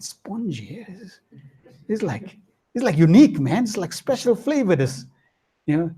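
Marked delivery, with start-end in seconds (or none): none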